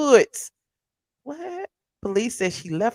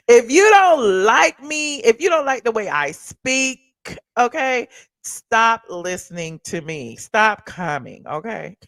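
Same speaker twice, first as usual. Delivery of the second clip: sassy; 2 semitones higher, 6 dB louder, slower than usual. Real, not acted. Telling off chat critics.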